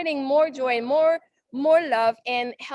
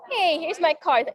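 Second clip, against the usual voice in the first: confident offer; 4 semitones higher than usual. Shown as a demonstration. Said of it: "getting more confident".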